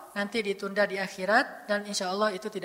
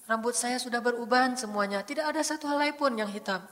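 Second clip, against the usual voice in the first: tender confiding prayer; 6 dB quieter than usual. Acted. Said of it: "Ini namanya curhat".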